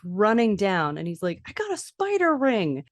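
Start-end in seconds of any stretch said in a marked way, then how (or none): 1.5-2.9 high-pitched excited child imitation; thrilled. Max to his parents about the ring, thrilled. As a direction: show off a prize in a high kid voice. Boy voiced, thrilled with prize.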